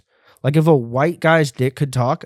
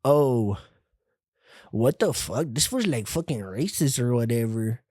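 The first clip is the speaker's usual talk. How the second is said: muttering imitation; 6 dB quieter than usual. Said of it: "I'm not sitting here being like".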